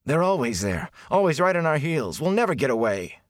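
high, agitated complaint; frustrated, worked-up outburst; growled complaint. A narrator's reading. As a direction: despair at being hunted, pitch climbing. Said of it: "Matt growled".

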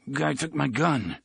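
slow, slurry words; slurred speech. Acted. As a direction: mumble it half slurred. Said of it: "His voice was so slurry".

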